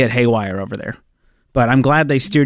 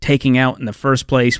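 upbeat show opener read; radio host intro. Acted.

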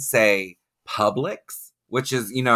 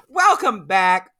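show-host announcement; 9 semitones higher, 4 dB louder, slower than usual. Pretend. Host resumes show after break.

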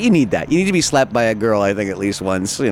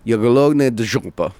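retold Russian phrase. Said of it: "It means I'm hungry for ass".

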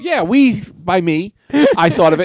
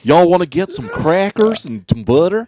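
slow, higher put-on bro voice; white guy voice; 4 semitones higher than usual. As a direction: drawl it like a preppy dude. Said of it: "the idea of the white guys".

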